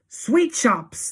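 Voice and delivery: high, loud excited echo; crowd cry. A narrator's reading. Witches echoing their leader, high excited cry. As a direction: cry it back in delight. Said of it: "they cried".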